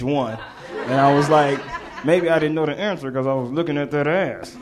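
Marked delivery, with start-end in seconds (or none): 2.0-4.6 offhand remark to a friend, not projected; cheeky aside. Retold or imitated. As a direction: toss it off as a sly aside. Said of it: "Like that".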